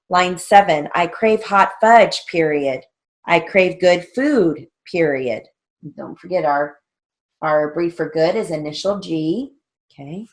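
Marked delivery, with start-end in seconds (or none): 0.1-5.5 raised, measured drill-sentence dictation. Shown as a demonstration. Teacher reading shorthand drill lines to students, dictation voice. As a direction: read out each sentence and its punctuation.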